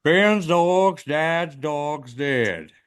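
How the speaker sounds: puffed-up big voice. Shown as a demonstration. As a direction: say it blown up like a balloon. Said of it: "want you to blow up really big".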